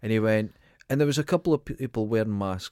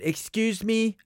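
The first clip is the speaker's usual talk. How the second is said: much higher, affronted question; indignant shock; 10 semitones higher, slower than usual. Retold or imitated. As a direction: squeak it out as a shocked old woman. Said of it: "And she went".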